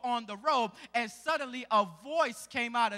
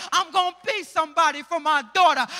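quicker, louder preached vow; louder repeat; 4 semitones higher, 10 dB louder, faster than usual. Acted. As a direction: push the repeat harder. Repeat builds louder, faster.

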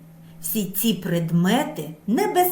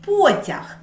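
calling out; 8 semitones higher than usual. Shown as a demonstration. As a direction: call the word out high, like calling a friend. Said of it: "що ми кличемо їх".

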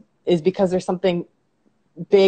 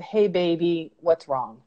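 tender; slower than usual. Retold or imitated. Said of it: "she said".

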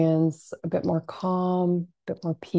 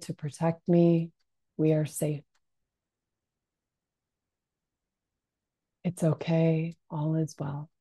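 soothing self-talk. Shown as a demonstration. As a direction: soothe yourself kindly, unhurried. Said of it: "speak to yourself in a soothing tone".

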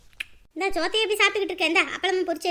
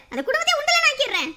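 angry threat; 7 semitones higher, 6 dB louder than usual. Acted. Father threatens the in-laws.

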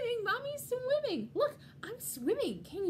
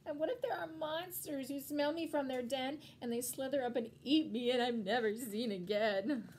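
put-on higher, louder, fretful child voice; anxious little penguin; 5 semitones higher, 4 dB louder than usual. Little penguin frets to mommy about the water, anxious. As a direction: pile up the fears like a worried little one.

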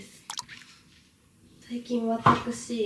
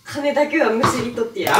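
louder scheming drama wife; melodramatic wife; 5 dB louder than usual. Pretend. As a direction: threaten like a soap villainess. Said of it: "ドラマの見過ぎやろ". (昼ドラ風に悪女っぽく)

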